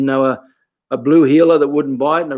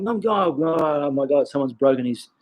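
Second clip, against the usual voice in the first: mock crying; 4 dB quieter than usual. Instructor mimics an upset kid at training, mock crying. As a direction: imitate a kid wailing in distress. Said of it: "crying like".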